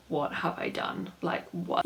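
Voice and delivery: hushed, horrified whisper of regret; stunned whisper. Retold or imitated. West whispering in shock after his sister leaves. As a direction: breathe it out as if shocked at yourself.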